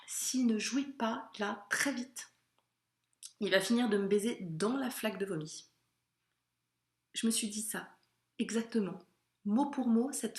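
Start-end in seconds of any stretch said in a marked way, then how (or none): 0.1-5.7 deliberate inner thought. Retold or imitated. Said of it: "je me souviens que j'ai pensé".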